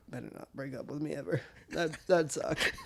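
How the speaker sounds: words strained around a burp; holding back a burp. Real, not acted. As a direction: talk while swallowing a burp. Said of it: "I said that through a burp".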